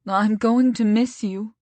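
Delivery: lightly voiced, slow tender goodbye; a hint of a sad coworker saying goodbye; admin's farewell. Admin hugging Stacy goodbye, slow and lightly tender.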